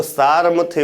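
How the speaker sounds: सारमथ्य with the r sounded before the m; wrong reading सारमथ्य, r moved before the m; misplaced r sound. Shown as a demonstration. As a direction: say सारमथ्य as saar-mathya, r ahead of m. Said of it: "माँ के पहले रा का उच्चारण होगा".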